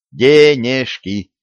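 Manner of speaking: "Денежки" spelt out slowly, each syllable clipped apart. Acted. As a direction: hammer out "Денежки" one syllable at a time. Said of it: "По слогам отчеканил".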